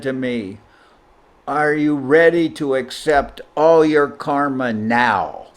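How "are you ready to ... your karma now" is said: stern challenge. Retold or imitated. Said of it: "Guru Maharaj said like that".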